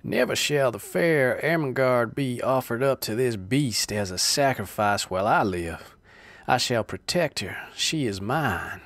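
loud, ringing heroic declamation; virile declaiming. Acted. Jack vows to protect Ermengarde, loud heroic declamation. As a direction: declaim like a stage hero. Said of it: "declaiming in appropriately virile accents".

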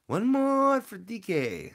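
high, loud, drawn-out hype call; rallying cheer. Real, not acted. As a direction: stretch it out like a crowd chant.

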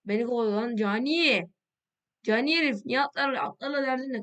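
being chased. Real, not acted. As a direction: yell while running for your life. Player chased by hostile player.

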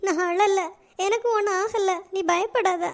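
trying to sound fine while upset; holding back tears. Acted. Maha telling worried Rani she is not crying, holding back tears. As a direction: deny the tears, gently tearful. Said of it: "ஏன் அழுற?".

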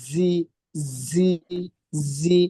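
জি with air flowing out; airy zi. Shown as a demonstration. Teacher showing students the airy letter. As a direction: let air hiss through জি. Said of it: "বাতাসে বের হবে".

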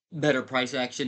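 hiccuping mid-sentence; hiccups. Real, not acted. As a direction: talk through a hiccup. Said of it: "I have the hiccups".

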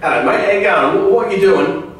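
chirpy caller in a put-on English accent; lightly hammed English accent. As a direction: greet a mate in a mock English accent. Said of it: "that's my English accent".

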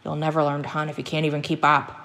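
put-on understated grumbling old hunter; angry grumble. Old hunter scolding his dog for lagging, angry grumble. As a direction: grumble with a touch of anger. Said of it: "he grumbled angrily".

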